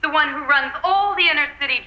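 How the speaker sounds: grand announcement. Acted. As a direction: proclaim your name grandly. Villain announces her name.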